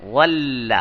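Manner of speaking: ول said with a heavy emphatic ظ; Arabic ظ sound. Shown as a demonstration. Teacher showing students the heavy Arabic sound. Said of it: "غات کے ساتھ".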